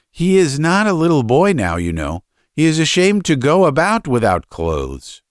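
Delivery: high, hesitant mother urging her husband; fretting mother, stumbling into her appeal; pleading mother. Acted.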